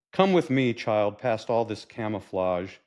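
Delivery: measured, expressive poetry reading; poem recital. Acted. Grandfather leading his granddaughter to a secret, poetic recital. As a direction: recite it as verse to an audience.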